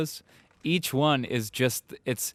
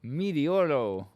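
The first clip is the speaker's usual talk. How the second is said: stunned disbelief; 4 semitones higher, 3 dB louder, much slower than usual. Real, not acted. Seeing a jarring poster.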